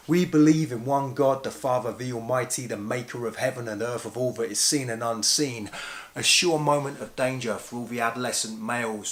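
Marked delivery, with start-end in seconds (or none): 0.1-5.7 mock congregational chant from muscle memory; rote creed recitation. Congregation springing up to join the Nicene Creed, rote recitation. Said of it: "triggered muscle memory and up you sprung".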